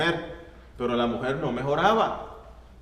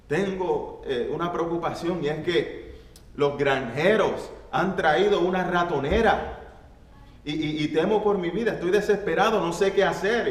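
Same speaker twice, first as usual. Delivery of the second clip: higher, rising frightened plea; a small mouse fearing for its life; desperate mouse; 5 semitones higher than usual. Acted. Mouse begging the pig for help, higher and anxious.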